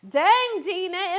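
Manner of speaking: a hint of Martin Lawrence, loud and high on Dang. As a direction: lightly do Martin Lawrence's catchphrase, punching Dang. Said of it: "in my Martin Lawrence voice".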